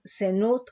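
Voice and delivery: "zenut" with the accent on the U; stress on final U. Shown as a demonstration. Teacher giving the Hebrew word for fornication, "zenut" stressed on the U. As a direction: say "zenut", stressing its last syllable, the U. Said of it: "con acento en la U".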